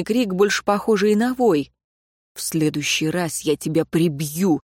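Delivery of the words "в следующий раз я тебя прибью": angry. Acted. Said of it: "проговорил Риан со злостью".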